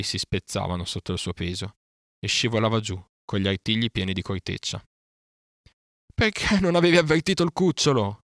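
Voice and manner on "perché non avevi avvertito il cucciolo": loud, high-pitched angry outburst; roaring. A narrator's reading. Panther rages at the bear for not warning the boy, roaring. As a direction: roar the accusation. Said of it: "ruggì al povero Baloo".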